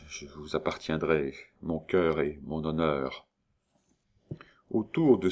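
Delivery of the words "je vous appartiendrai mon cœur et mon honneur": soft, low, choked promise; muffled voice. Acted. Notary pledging himself to the countess, muffled voice. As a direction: swallow the words, voice stifled. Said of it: "d'une voix étouffée".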